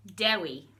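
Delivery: Dewi said as DEH-wee, clear and careful; Welsh word Dewi. Shown as a demonstration. The speaker modelling Dewi for children, careful pronunciation. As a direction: model Dewi for learners to copy. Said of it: "the first word we're going to learn is Dewi".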